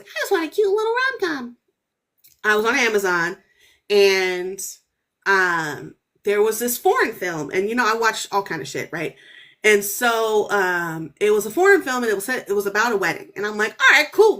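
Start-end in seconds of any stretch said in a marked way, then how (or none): 0.0-1.6 high, fast, sing-song little voice; wistful girly wish. Retold or imitated. Herself on Amazon, wanting a light movie: high sing-song wish. 13.8-14.4 upbeat approval. Retold or imitated. Her reaction to the wedding film.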